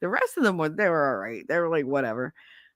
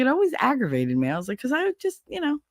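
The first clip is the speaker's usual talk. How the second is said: put-on 1 childish whine; 9 semitones higher, faster than usual. Whiny childhood complaint.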